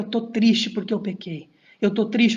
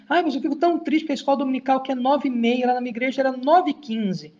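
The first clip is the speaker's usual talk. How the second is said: mock whiny member; 3 semitones higher than usual. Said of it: "As pessoas me procuram".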